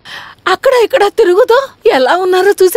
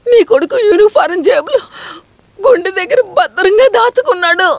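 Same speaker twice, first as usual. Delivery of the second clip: crying; 2 semitones lower than usual. Acted. Crying wife reveals photos.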